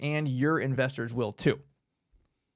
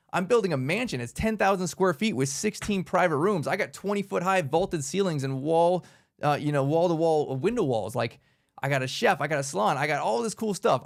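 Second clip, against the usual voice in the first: excited pitch; 2 semitones higher than usual. Shown as a demonstration. Investor pitching a mansion to a friend, excited. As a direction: sell it like a dream home, upbeat. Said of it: "trying to get them excited".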